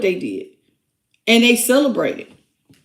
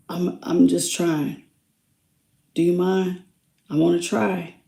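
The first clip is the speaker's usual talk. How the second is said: softer, gentle pleading olive-branch voice; tender channeled apology; 4 semitones lower, 4 dB quieter than usual. Acted. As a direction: speak as the remorseful one, softly asking forgiveness.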